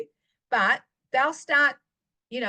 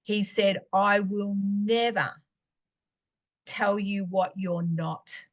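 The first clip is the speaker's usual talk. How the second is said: slow tender reassurance; 4 semitones lower than usual. Retold or imitated. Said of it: "God spoke to me very clearly".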